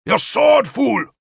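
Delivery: high, loud scornful command; impatient barked order. A narrator's reading. King demanding a sword from his guard, barked. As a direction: bark it at a useless underling.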